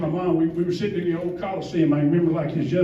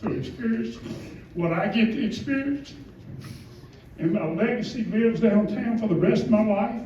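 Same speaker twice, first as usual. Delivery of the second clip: choked up; 5 semitones higher than usual. Real, not acted. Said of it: "I'm a big baby".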